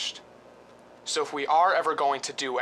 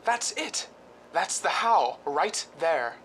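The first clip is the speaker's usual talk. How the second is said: sudden excitement; 6 semitones higher than usual. Acted. Husband telling Diane he has found the way, excited and higher. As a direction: gasp then higher excited rush.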